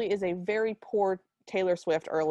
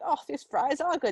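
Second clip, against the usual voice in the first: higher-pitched fake British quote; terrible British accent; 5 semitones higher than usual. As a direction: imitate her bad British accent. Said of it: "in a terrible British accent".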